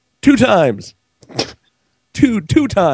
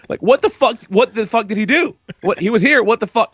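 higher-pitched, exasperated demands; retold yelling; 5 semitones higher than usual. Husband ranting at his wife about the gas leak, retold yelling. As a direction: reenact an outraged rant. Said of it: "Why are you yelling at me".

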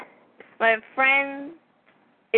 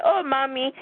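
lightly imitated African accent, higher pitch; hint of an African accent, raised; 5 semitones higher than usual. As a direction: mimic a friend switching into an African accent. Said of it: "in her African accent".

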